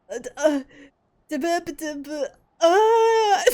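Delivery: stammering, rising into a high squeal; flustered stammer. Real, not acted. Streamer tongue-tied by the hot villain, high stammer. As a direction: lose your words over a crush.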